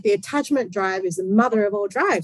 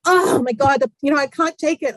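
higher, mildly exasperated parent imitation; stressed parent; 5 semitones higher than usual. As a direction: act out a parent at the end of their tether, lightly. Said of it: "the parents are always stressed".

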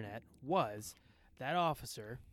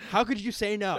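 laughing; 6 semitones higher, 7 dB louder than usual. Real, not acted. Laughing at a crude joke.

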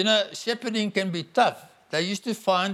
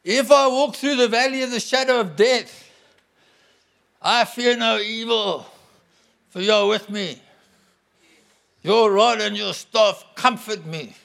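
bold declaration; 3 semitones higher, 4 dB louder than usual. Acted. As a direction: shout it out as a promise kept. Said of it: "It's declaration".

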